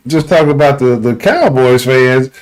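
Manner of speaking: ordinary talk, nothing marked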